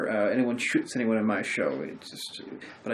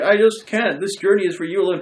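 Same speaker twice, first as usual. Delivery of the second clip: mock dramatic witch; 5 semitones higher, 4 dB louder than usual. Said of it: "And she's like".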